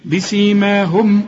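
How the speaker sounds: "بسيماهم" slow, lips closed firmly on the mim, then the long aa held; careful tajweed reading of "بسيماهم"; "بسيماهم" with the alif stretched. Shown as a demonstration. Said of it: "لازم تقفل فيها شفايفك".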